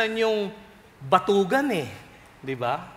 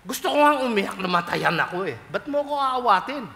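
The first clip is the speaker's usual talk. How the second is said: indignant widow. Retold or imitated. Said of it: "gusto niyang hambalusin".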